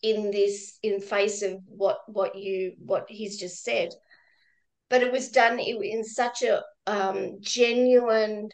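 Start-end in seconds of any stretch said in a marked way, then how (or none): 0.0-3.9 hushed, slower self-scolding under the breath; panicked inner voice. Retold or imitated. Volunteer reliving panic after laughing on a support call, hushed self-scolding. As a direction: quietly berate yourself in your own head, slowed down. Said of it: "in my mind, while I laughed, I'm going".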